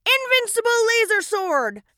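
heroic battle cry. Acted.

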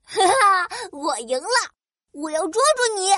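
put-on high giggly kid voice; laughing child. Child laughs catching grasshopper.

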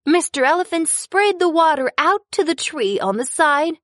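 ordinary delivery

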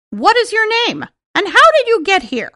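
high, fast eager little man; excited dwarf voice. Acted. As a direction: ask it like a curious dwarf. Dwarfs ask Snow White.

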